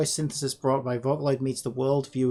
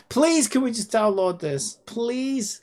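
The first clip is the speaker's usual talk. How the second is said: high, raised-voice begging; pleading; 9 semitones higher, 4 dB louder, slower than usual. Real, not acted. Streamer begging a stuck download, pleading. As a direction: implore it, pitch up high.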